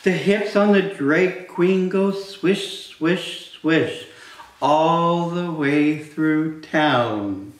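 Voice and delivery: sing-song, slowed read-aloud; bouncy storytime voice, swishes rising; reading to children. Acted. Reading picture book aloud to kids.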